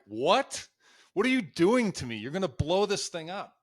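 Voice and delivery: a rookie panicking inside his head; panicked inner voice. Retold or imitated. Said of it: "in my head, I'm like".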